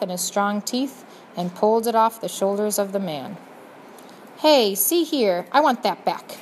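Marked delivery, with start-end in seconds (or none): 4.4-6.4 indignant protest. Acted. Rat steals prisoner's cloth.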